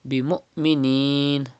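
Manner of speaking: Bi mu'minin slowly, a clean catch on the hamza; hamza stop. Shown as a demonstration. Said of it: "always pronounced with sudden pause".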